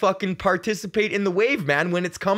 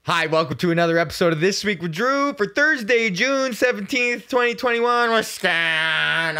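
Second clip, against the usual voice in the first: show intro; 3 semitones higher than usual. Real, not acted. Host welcoming listeners to the show, upbeat intro. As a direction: kick off the episode, stretching the month.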